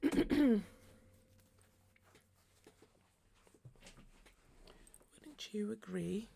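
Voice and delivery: raspy, breathy croak; a smoker's rasp breaking into whisper; hoarse voice. Real, not acted. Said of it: "Why do I sound like a chain smoker?".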